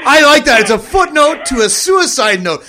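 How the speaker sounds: delighted repeat. Real, not acted. Host laughing, repeating joke.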